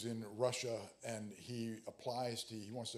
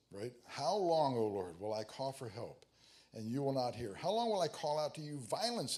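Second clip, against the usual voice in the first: lamenting cry; 3 semitones higher, 4 dB louder than usual. Acted. Habakkuk crying out to the Lord, loud pleading lament. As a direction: cry out to God like a desperate prophet.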